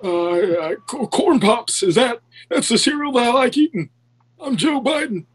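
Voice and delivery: a lightly voiced, raspy-claimed Biden; half-hearted old politician; Joe Biden impression. Friend attempts a Joe Biden impression on request. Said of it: "trying to do a Joe Biden impression".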